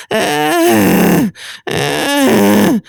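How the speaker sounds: high cracking sound. Shown as a demonstration. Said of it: "that cracking area".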